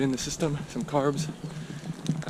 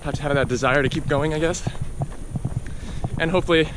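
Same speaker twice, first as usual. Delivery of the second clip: while running. Real, not acted. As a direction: narrate while jogging, pushing breath. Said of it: "just hit the ten mile mark".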